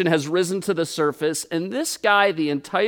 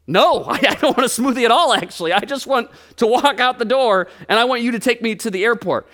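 half-laughing, louder exasperated no; exasperated protest; 4 semitones higher, 3 dB louder than usual. Retold or imitated. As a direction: push back, flustered and laughing. Exasperated refusal, running late.

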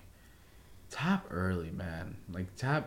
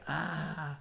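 higher, soft mock "ah" of pain; pained-face groan; 6 semitones higher, 8 dB quieter than usual. Imitating a leg locker's reaction to a submission, pained. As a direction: groan softly through a grimace. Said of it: "make a face".

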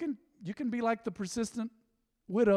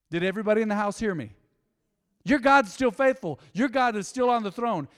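calling out; 4 dB louder than usual. Real, not acted. Preacher calling out to congregation.

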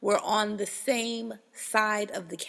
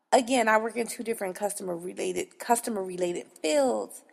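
normal talking voice

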